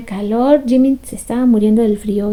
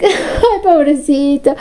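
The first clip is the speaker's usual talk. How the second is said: laughing pity; 4 semitones higher, much slower than usual. Retold or imitated. Friend teasing sick Jimin.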